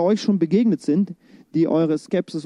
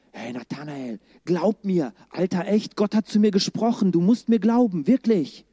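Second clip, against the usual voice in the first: mock pleading. Philip begging Nathanael to believe God spoke to him, mock pleading.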